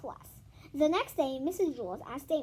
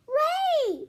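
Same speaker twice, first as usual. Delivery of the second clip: high loud blurt of the name; instant reply; 10 dB louder than usual. Acted. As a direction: snap the name out at once. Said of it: "B B instantly replied".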